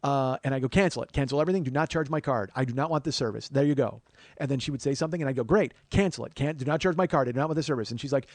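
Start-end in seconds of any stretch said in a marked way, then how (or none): 0.7-4.0 loud, insistent retold demands; acting out irate typed commands; furious texting. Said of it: "I'm texting furiously". 5.4-7.9 furious texting. Retold or imitated. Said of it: "I'm texting furiously".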